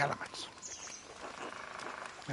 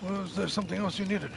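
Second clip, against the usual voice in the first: Smokey voice; 3 semitones higher than usual. Acted. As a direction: play the shy forest charcoal burner, pitched up. Voicing the charcoal burner again.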